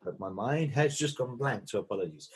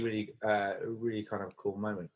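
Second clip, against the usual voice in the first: catching throat, voice about to break. Real, not acted. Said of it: "my throat keeps catching".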